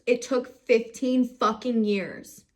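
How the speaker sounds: slow, angry emphasis on every word; a bitter, heavy complaint. Real, not acted. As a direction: lean hard into the anger. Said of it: "trying not to get mad".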